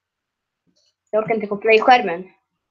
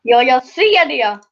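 slow, sharp, annoyed exclamation; a bit angry; 4 dB louder, slower than usual. Real, not acted. Streamer to viewers, sounding accidentally a bit angry. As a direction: snap it out like you're fed up. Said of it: "nu lät jag lite arg".

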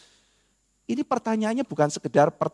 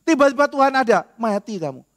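dramatic reveal; 6 semitones higher, 4 dB louder than usual. Acted. Dramatic twist repeated.

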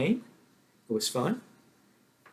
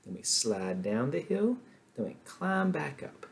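pitch traces the letter; 3 semitones higher than usual. Shown as a demonstration. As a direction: draw the W shape with your voice.

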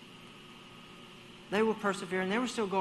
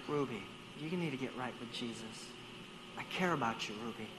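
1 pleading; 7 semitones lower, 7 dB quieter than usual. Retold or imitated. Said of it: "I was like".

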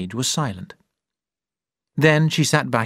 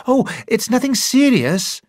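quick; 12 semitones higher, 4 dB louder than usual. A narrator's reading. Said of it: "she said quickly".

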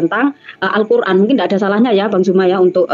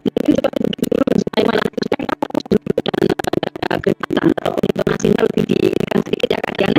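quiet aside; 4 dB quieter than usual. Real, not acted. Host speaks softly off-mic.

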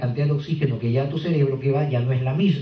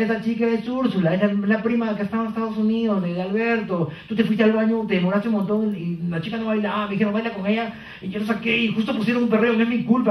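put-on pleading boyfriend; 5 semitones higher than usual. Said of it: "si él le dice".

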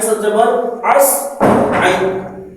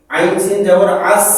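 slow spelling; much slower than usual. Shown as a demonstration. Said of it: "এরপরে".

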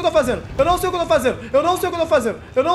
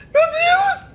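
high shocked cry; startled cry; 4 dB louder than usual. Real, not acted. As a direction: cry out at the scare. Susto no jogo de terror. (grito de susto agudo)

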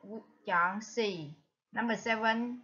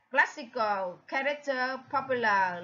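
Classical, character, popular, each stressed at the start; first-syllable stress. Shown as a demonstration. Teacher lists matching words, Classical, character, popular stressed on the first syllable. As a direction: lean on CLASS, CHAR and POP. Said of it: "nhấn ở âm thứ nhất".

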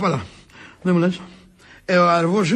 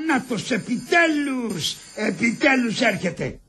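drawn-out relief; much slower than usual. Acted. Doctor finally seems to arrive.

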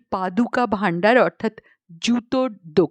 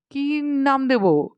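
slow, higher-pitched helpless plea; helpless question; 4 semitones higher, slower than usual. Acted. Author helplessly asking Gangaram for a title, at a loss. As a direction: ask at a loss, drawn out. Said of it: "অসহায়ের মতো আমি প্রশ্ন করি".

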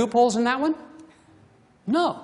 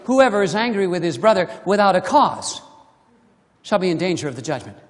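lower, self-serving read, rushing the end fast; loophole seeker reading; 5 semitones lower than usual. Retold or imitated. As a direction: read it as a smug excuse, hurrying through the last part. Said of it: "Some of you might be saying".

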